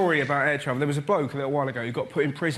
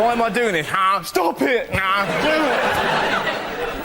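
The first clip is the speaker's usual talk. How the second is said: put-on old lady leaping; 5 semitones higher, 4 dB louder, much slower than usual. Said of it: "when you kinda go".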